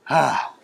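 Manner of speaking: imitated sigh of disgust; mimicked exasperated exhale. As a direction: let out a weary, put-upon breath. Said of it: "you know that face of disgust".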